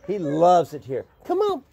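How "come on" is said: calling the dog. Real, not acted.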